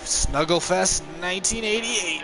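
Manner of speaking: very high falsetto, slow hype; mock falsetto caller. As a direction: call the race up in a falsetto.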